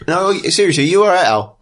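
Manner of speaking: lightly voiced guard checking on a mate; concerned guard. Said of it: "And then turns and goes".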